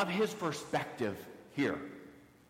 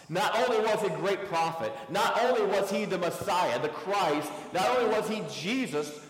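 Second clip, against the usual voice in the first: preaching at full force; 4 semitones higher, 4 dB louder than usual. Real, not acted. Preaching build, repeated not only.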